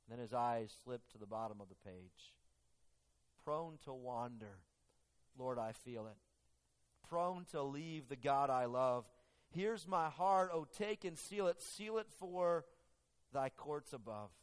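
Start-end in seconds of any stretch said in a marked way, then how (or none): 3.4-14.3 emotional hymn reading. Acted. Robinson reading his hymn, slow swell of emotion. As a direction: let the verse swell with feeling.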